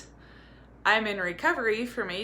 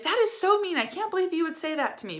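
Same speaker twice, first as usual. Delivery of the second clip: much higher and louder, offended and wounded; mock hurt outrage; 11 semitones higher, 3 dB louder than usual. Mom acting out the wrong reaction to her kids, mock hurt outrage. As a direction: overreact as if deeply insulted. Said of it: "Not to be like".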